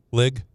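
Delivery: "Lig" with a short i, like lick with a g; imitating Kiper's "lig". Mocking how Kiper says league as "Lig". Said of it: "how he pronounces league".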